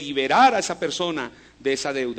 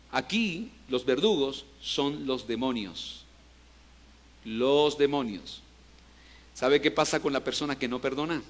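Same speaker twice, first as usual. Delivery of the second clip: grave warning; 6 semitones lower, 8 dB quieter than usual. Acted. Preacher warns the church about unforgiveness, hushed and grave. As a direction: warn them in a hushed, heavy voice.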